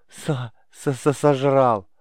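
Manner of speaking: breathless laughing, barely getting the word out; choking with laughter. Acted. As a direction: gasp out "сожрал" between fits of laughing. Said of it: "Он задыхался от смеха".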